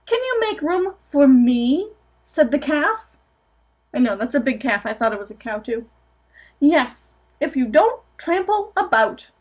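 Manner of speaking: gentle storybook reading aloud; picture-book narration, lightly sing-song; reading to children. Acted. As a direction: read it to a room of small kids.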